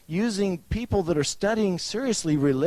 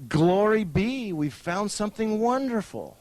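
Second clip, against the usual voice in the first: mock awe; 5 semitones higher than usual. Mock article quote, reverent awe.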